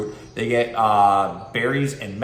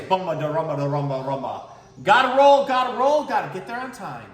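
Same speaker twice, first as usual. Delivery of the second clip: rolling character; 6 semitones higher than usual. Acted. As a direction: chant it while rolling past. Skater rolls by.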